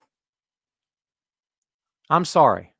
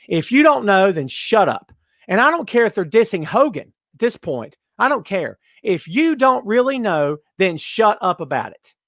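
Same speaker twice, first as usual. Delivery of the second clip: angry rant; 4 semitones higher than usual. Real, not acted. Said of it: "I'm sorry to yell at everyone".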